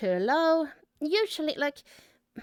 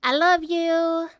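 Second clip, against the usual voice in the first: gushing thanks; 3 semitones higher, 4 dB louder, slower than usual. Real, not acted. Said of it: "blowing kisses to friends".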